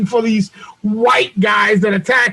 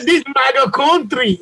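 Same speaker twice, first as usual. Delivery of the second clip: mock Nigerian accent; 3 semitones higher than usual. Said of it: "big black muscular Nigerians".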